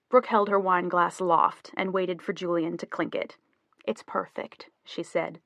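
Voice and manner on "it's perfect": soft, heartfelt praise; quiet sincerity; sincere. A narrator's reading. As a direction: say it softly and mean it. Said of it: "and meant it".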